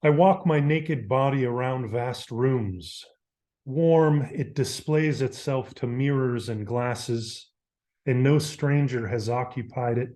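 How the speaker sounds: lightly heightened recital of a poem; measured, deliberate verse reading; poetry reading. Acted. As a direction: give each line of verse its own breath and pause. Reads translated poem aloud.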